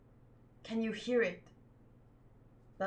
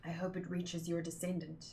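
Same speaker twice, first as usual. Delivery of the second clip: tearful; 4 semitones lower, 8 dB quieter than usual. Acted. Bell rings for lost ancestor.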